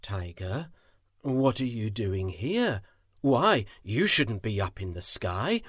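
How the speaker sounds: frowning, firm but gentle, swelling to the end; Shao, gently stern. Acted. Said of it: "He gently asked, with a frown".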